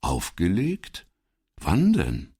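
mock innocent puzzlement; feigned puzzlement. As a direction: play dumb, as if searching his memory. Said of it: "als dächte er angestrengt nach".

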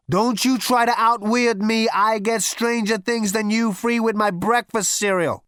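slow, loud, heavy threat; slow menacing Zaphod. Acted. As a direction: lean in and lean on him.

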